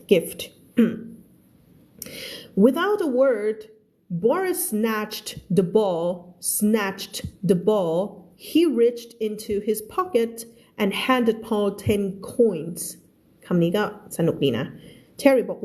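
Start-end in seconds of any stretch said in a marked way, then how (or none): 2.6-12.8 careful, deliberate English story reading; spaced-out teacher's narration; slow model reading. Acted. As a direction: read slowly for learners, enunciating each word. Teacher reads story aloud.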